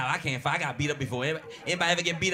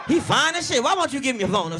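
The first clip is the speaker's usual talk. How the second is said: mock enthusiasm; 6 semitones higher, 5 dB louder than usual. Mock pushing wife to the guy.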